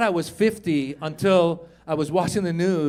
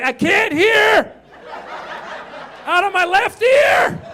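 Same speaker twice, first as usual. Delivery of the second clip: panicked complaint; 10 semitones higher, 4 dB louder than usual. Acted. Patient listing the next variant's symptoms, panicked yelling. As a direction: holler the symptoms, pitched way up.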